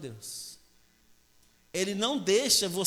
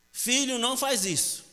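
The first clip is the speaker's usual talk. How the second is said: higher-pitched mock mother's warning; motherly warning; 5 semitones higher than usual. Mother tells her naughty son to stop, motherly warning. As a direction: warn the child, pitched up.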